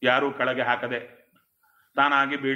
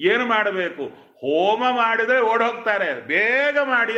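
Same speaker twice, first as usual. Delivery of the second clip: higher-pitched mock urgent plea; urgent pleading; 5 semitones higher than usual. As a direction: act out a family anxious to be rid of a ghost. Acting family begging to banish ghost. (ಅವಸರದಿಂದ ಬೇಡಿಕೊಳ್ಳುವ ಅಭಿನಯ)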